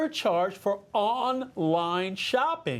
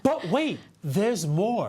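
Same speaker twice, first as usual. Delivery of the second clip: infomercial voice. Pretend. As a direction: sell it like a late-night infomercial. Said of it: "I hate to sound like an infomercial".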